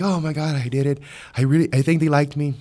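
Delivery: mildly acted giddy relief; a touch of breakless excited chatter. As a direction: gush a little, telling friends the good news. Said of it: "all these giddy feelings".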